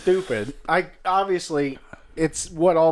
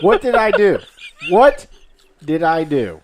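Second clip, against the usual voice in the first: mock despair; 8 dB louder than usual. Real, not acted.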